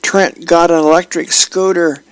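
put-on high-pitched child bursting with news; excited yelling kid. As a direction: gush it high like a kid begging Mom for a scooter. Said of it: "to the room and yells".

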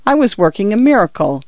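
a mild attempt at casual that does not quite come off; Fotheringay admitting the truth to the constable, unsure; failed offhand tone. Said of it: "tried to speak in an offhand way, but ... he couldn't".

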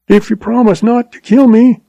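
terrified pleading blubber. A narrator's reading. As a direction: beg for your life, blubbering. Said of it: "he blubbered".

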